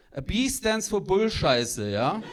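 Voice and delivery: slow, lightly mocked German mother; scornful German mom. Mom explains the B grade to her son, scornful. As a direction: spell it out in a German accent. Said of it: "She says".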